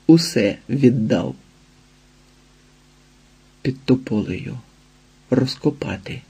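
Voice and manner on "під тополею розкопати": soft, hunted whisper. A narrator's reading. Ілія сам собі шепоче, зацьковано. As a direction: breathe the words like a secret. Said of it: "прошепотів зацьковано".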